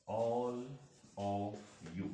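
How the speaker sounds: "All of you" one word at a time with pauses. Shown as a demonstration. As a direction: break "All of you" into separate words. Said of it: "तो हम ये बोल सकते हैं". ("All of you" एक-एक शब्द रुककर)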